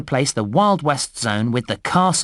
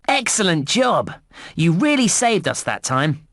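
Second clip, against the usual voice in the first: higher-pitched, upbeat praise; congratulating; 3 semitones higher than usual. Acted. Game guide praising the player's rescue work, congratulating.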